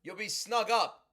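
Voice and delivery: lightly hammed-up lullaby tone; bedtime story voice. Shown as a demonstration. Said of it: "like I'm telling a bedtime story".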